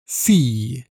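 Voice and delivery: "fille" said fij, with an I and a Y glide; I sound demo. Shown as a demonstration. Teacher to learner, modelling the feminine: I and Y glide. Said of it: "avec le son I".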